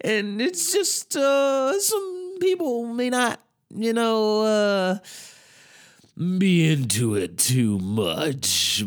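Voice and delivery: very high, slow, wavering comic voice; a slow, sky-high, quavering put-on voice; Emo Phillips voice. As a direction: do the comedian's famous high whiny warble. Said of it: "he talks like this".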